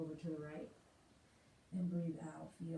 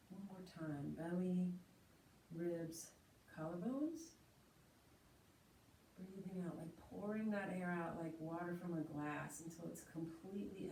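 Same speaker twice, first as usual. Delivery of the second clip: pace the class through every inhale and exhale; guided breathing. Acted. Leads three-part breath.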